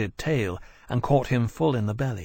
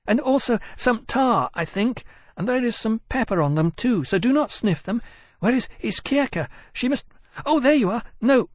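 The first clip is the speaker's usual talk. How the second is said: put-on high fussy young dragon; high-pitched dragon voice; 11 semitones higher than usual. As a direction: lift it high, quick and fretful. Persitia's dragon voice.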